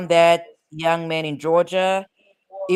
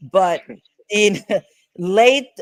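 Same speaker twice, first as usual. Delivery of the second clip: laughing; 2 semitones higher, 6 dB louder, slower than usual. Real, not acted. Laughing mid-sentence.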